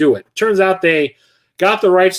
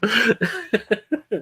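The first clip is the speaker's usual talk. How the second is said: a genuine short burst of laughter, higher and softer; real laugh; 7 semitones higher, 4 dB quieter than usual. Real, not acted. Streamer cracking up at the movie quote, real laugh. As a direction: crack up at the punchline. Laughing at his own retelling.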